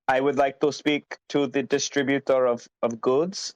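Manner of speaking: put-on deliberate phrasing in an Indian accent. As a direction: imitate an insistent caller's Indian accent. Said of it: "very distinct Indian accents".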